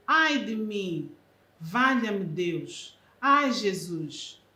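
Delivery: slow, drawn-out cries of woe; a slow, pained lament. Shown as a demonstration. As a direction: moan them slowly as if in distress. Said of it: "Valor semântico, dor".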